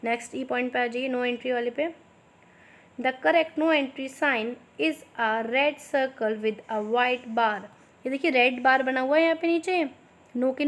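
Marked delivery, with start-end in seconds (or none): 3.0-7.6 slow, clear dictation pace for students to write. Shown as a demonstration. Teacher dictating slowly to her students. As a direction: spell it out slowly so they can copy. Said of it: "थोड़ा मैं slow slow बोलूँगी".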